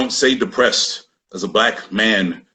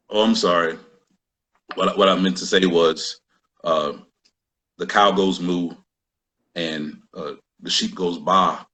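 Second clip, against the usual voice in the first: lower, much softer fake-sweet backpedal; mock innocent; 7 semitones lower, 4 dB quieter than usual. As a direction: shrink into a childish nursery singsong, ironic. Sarcastic retreat into nursery rhyme.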